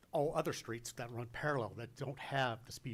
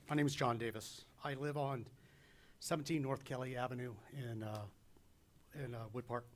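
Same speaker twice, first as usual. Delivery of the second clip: rushed nervous introduction. Real, not acted. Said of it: "sorry, I'm a little bit nervous".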